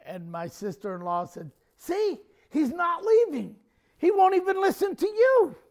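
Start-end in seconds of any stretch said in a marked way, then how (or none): 1.7-5.6 high, loud, exasperated outcry; imitated frantic complaint. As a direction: mimic a panicky relative proving her point. Sister-in-law's frantic complaint to mom.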